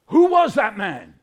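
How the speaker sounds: loud, projected storybook question; dramatic question. Acted. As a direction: hit WHO hard and fall away. Acted awestruck bystander in a story.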